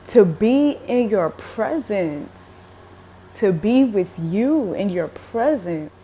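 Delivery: slow, heartfelt, lingering; tender reply. Retold or imitated. Speaker answering Jesus, slow and tender. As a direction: savor each word of devotion. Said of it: "and I was like".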